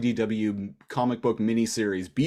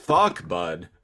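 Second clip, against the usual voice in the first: mock Canadian slang; 4 semitones lower, 3 dB louder than usual. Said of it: "Eastern Canadian for sure".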